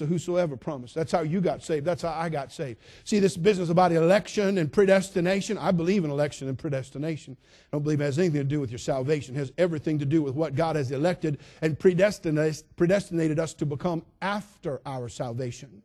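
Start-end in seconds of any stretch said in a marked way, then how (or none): none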